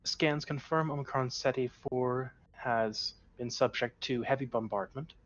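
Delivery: ship computer reporting, even tone; lightly voiced computer readout; robot voice. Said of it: "nothing but robot voices".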